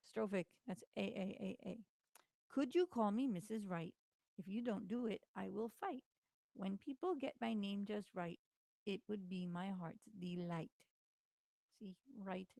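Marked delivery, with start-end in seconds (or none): 2.5-10.7 a fuller, louder recital of a rhyme; poem reading. Shown as a demonstration. Teacher presenting her finished poem, a full and slightly slowed recital. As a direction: recite it proudly to the class, slowing at the end.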